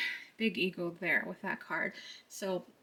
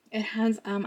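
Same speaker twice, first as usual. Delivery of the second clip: ordinary delivery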